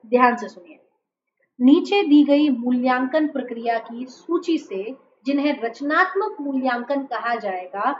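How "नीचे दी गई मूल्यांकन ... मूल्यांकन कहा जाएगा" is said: measured exam-question read-aloud; slow careful reading. Real, not acted. Teacher reads long question to students, slow and careful. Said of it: "बहुत धीरे धीरे पढ़ रही हूँ".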